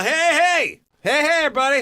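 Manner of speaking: high, loud calling for attention; hammy show-off bird; pelican voice. Retold or imitated. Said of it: "the fucking pelicans do a".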